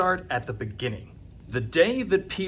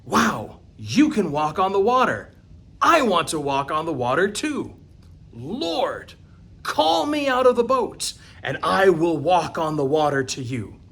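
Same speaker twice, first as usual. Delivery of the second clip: eager Peter; 4 dB louder than usual. Acted. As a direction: beg to join him on the water. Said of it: "And Peter stands up and he says".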